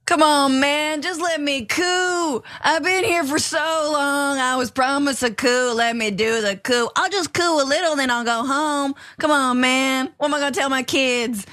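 put-on high, pleading take on a rioter's accent; mock a whiny rioter's accent, begging to be let through; Damon Beckley. Host mimicking the rioter begging for his coup, mock-pleading accent. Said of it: "he had an accent like that".

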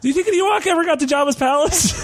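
very high, hollow ghostly voice. Pretend. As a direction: float every word up high like a ghost. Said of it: "why do I sound like a ghost?".

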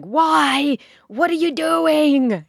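high, incredulous mock scolding; judgy goat people. Goat people scolding new owners, mock incredulous. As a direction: voice the baffled goat experts. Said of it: "goat people are probably going".

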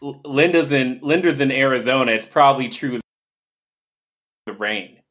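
choppy, dropping-out connection; words breaking up over a bad line; audio cutting out. Real, not acted. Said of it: "I think your audio's cutting out".

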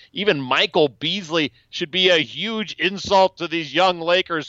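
mildly hammed-up, emphatic rant; crazy old man rant. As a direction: rant in deliberate, drawn-out announcements.

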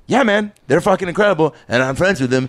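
high-pitched indignant retort, settling down; proud, put-out insistence. Retold or imitated. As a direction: retell it as indignant bragging for friends. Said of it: "You got, like, indignant about it?".

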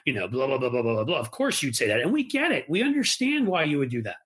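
a light, smug Ted Cruz parody, pitch jumping up; lightly voiced sneering politician; mock Ted Cruz. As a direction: mimic a condescending debater brushing off liberals. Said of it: "that's the Ted Cruz tactic".

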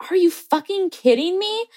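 high, frustrated outburst under the breath; exasperated swearing. Retold or imitated. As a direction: swear to yourself in disbelief. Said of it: "to myself".

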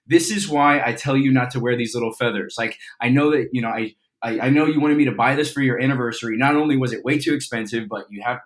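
loud, improvised telling-off; mock scolding. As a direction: play an exasperated partner's complaint. Improvised scolding of scene partner.

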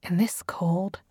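soft unvoiced whisper; whispered thought. A narrator's reading. Noor wondering at the cold, whispered. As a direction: hush it like a secret. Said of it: "Noor thought with wonder".

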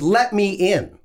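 high-pitched imitation of a pushy driver; mimicked driver's insistent order; insistent demand. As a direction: repeat it firmly, as if not heard. Driver repeats demand after "What?.

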